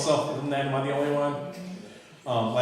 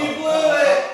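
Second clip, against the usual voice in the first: mock scold; 13 semitones higher, 6 dB louder than usual. Real, not acted. Mic mishap, mock scolding.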